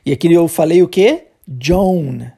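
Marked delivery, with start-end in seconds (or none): 1.5-2.3 "Joan" with a long oh-glide, low; contrasted Joan. Shown as a demonstration. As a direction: model "Joan" to rhyme with "bone". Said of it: "É diferente".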